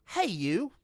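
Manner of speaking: loud high hail; calling out. A narrator's reading. The voice calls out sharply to Brutha. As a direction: shout to get his attention.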